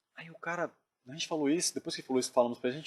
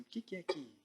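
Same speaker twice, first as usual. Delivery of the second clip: hushed question; 2 semitones higher, 12 dB quieter than usual. Retold or imitated. Sanches quietly asks his companions what happened, hushed. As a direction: ask it very softly, as if afraid to be overheard. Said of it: "perguntou baixinho assim".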